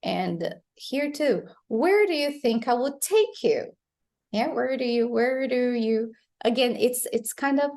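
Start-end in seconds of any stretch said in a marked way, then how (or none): 1.7-3.8 "Where do" linked with a flapped D, pitched higher. Shown as a demonstration. Teacher models the question for learners, flapped D. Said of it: "this sound is flap as well". 4.5-6.1 "do" tapped straight after "where"; flapped D. Shown as a demonstration. Teacher drills where do you, flapped D. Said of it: "this sound is flap as well".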